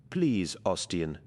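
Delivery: slow, mild tearful plea; a touch of sobbing, pleading slowly. Acted. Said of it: "she sobbed".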